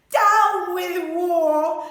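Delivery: slow, loud hooted slogan; hooting. A narrator's reading. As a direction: hoot it slowly and boldly. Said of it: "And he hooted".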